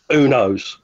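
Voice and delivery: whispering. Acted. Mysterious aside about the movie.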